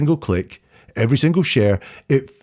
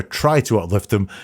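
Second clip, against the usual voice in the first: "Try" pressed with a rising lift; stress on try. Shown as a demonstration. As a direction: lean on "Try" to mark it as vague. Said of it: "two vagueness words in there".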